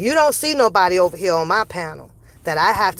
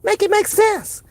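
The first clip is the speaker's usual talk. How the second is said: exasperated outburst; 9 semitones higher than usual. Real, not acted.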